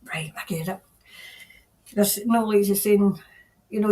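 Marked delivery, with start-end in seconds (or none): 0.0-0.8 whisper. Real, not acted. Medium answering a spirit.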